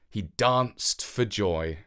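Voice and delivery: ordinary delivery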